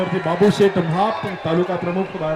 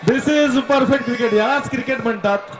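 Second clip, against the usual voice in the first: excited cricket commentary; 4 semitones higher, 4 dB louder, slower than usual. Real, not acted. Co-commentator hails the boundary.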